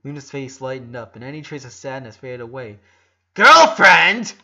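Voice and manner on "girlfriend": shrieked, high and very loud; scream. A narrator's reading. Luna screaming with joy at her brother's girlfriend news. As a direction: squeal it out in delight. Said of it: "she screamed".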